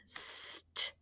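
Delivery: St-ac split into "sst", then "ack"; sounding out. Shown as a demonstration. Teacher asks about the next word, sounding out. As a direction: sound out St-ac in separated parts.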